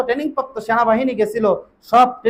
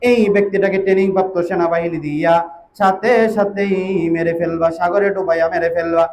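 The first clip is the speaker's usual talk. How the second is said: melodic preaching. Real, not acted. Melodic sermon storytelling.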